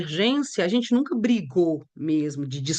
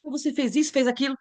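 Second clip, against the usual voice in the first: accusing; 5 semitones higher, faster than usual. Shown as a demonstration. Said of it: "Você pode mudar a forma de falar".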